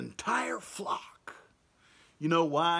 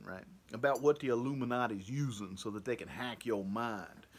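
put-on half-hearted Italian-American mobster accent; loose Italian accent; 2 semitones lower, 4 dB quieter than usual. Talking to Tony from The Sopranos as a Catholic, in a loose Italian accent. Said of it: "a Italian accent to a black person's accent".

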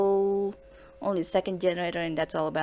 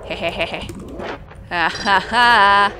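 cartoon laugh; 5 dB louder, slower than usual. Real, not acted. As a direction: giggle into a slow hammy ha ha ha. Giggles at own situation.

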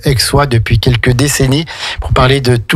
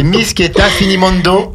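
Italian name in a higher, practised accent; 5 semitones higher than usual. Real, not acted. Radio host introducing the next Italian song, Italian accent. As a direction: pronounce it with a showy Italian accent. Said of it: "Quel accent".

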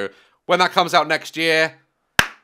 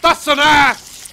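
startled; 12 semitones higher, 7 dB louder, much slower than usual. Real, not acted. Startled at a creature.

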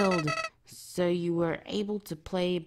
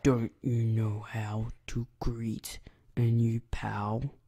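a hint of a laid-back prankster; easygoing, teasing skeleton voice; lightly voiced joking skeleton; 7 dB louder, slower than usual. Reads Sans's game lines aloud.

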